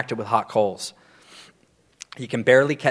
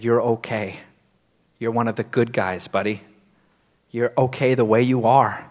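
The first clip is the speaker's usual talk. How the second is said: gently reassuring; 3 semitones lower than usual. Retold or imitated. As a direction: console a crying friend, unhurried. Retells mentor comforting him tearfully.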